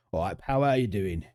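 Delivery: London geezer greeting; matey Cockney geezer accent. Shown as a demonstration. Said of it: "In a geezer accent".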